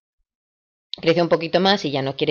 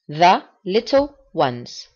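slow drill; much slower than usual. Shown as a demonstration. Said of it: "Voy a repetir la palabra varias veces".

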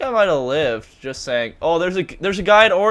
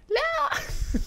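retold scream; 4 dB quieter than usual. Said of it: "I was screaming".

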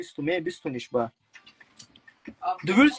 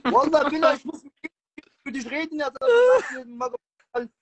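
furious outburst at a friend; angry rant; 5 semitones higher than usual. Real, not acted. Friend accuses him, ranting.

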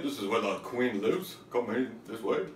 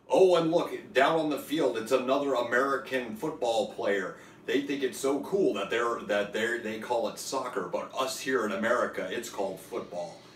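mock sports announcer.

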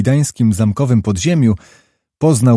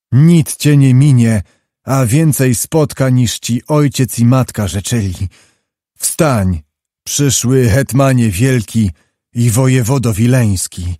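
solemn prince. Acted. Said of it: "rzekł uroczyście książę".

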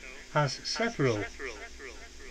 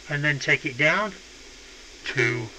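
pitch shifted down. Shown as a demonstration. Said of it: "a lower pitch".

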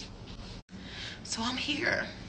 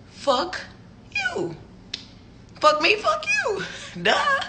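much higher, soft, teasing singsong; singsong taunt; 13 semitones higher, 4 dB quieter, slower than usual. Real, not acted. Taunting the texter in a high soft singsong. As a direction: sing the taunt playfully.

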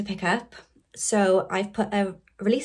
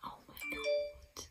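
amazed gasp; 12 dB quieter than usual. Real, not acted. Amazed at sales.

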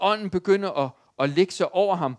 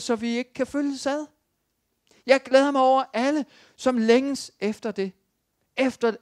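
higher, louder impassioned sermon; preaching; 7 semitones higher, 5 dB louder than usual. Acted. Pastor urging his congregation to be desperate for God, fervent preaching. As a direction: plead with the church, building in fervour.

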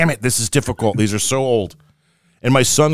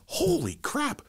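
first guy's voice; 10 dB quieter, slower than usual. Retold or imitated. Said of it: "first guy goes".

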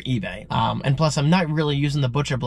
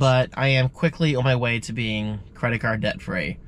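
stuffy, congested voice; 2 semitones lower than usual. Real, not acted. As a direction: talk through a blocked nose. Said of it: "I sound congested".

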